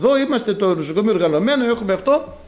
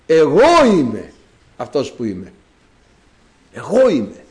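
voice of God; 4 semitones lower, 4 dB louder than usual. Retold or imitated. God names himself to Moses.

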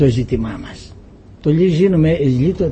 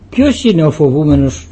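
louder intoned Bible reading; solemn scripture reading; 3 dB louder than usual. Acted. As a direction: read it out like liturgy. (επίσημη ανάγνωση Γραφής, πιο δυνατά)

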